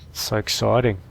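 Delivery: excited Australian accent; Aussie accent. Shown as a demonstration. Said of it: "That's my Aussie accent".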